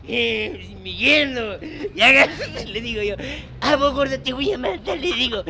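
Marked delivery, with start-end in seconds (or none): 3.6-5.0 retold threat, pitched higher; angry threat. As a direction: lash out at the in-law, half performed. Retold threat to father-in-law. (amenaza enojada, actuada)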